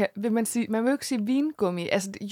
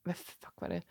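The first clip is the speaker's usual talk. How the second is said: whisper; 9 semitones lower, 14 dB quieter than usual. Real, not acted. Stunned reaction after the song.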